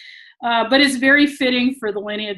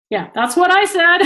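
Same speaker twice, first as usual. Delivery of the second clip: laughing admission; 8 semitones higher, 5 dB louder than usual. Real, not acted. Admits own disbelief, laughing.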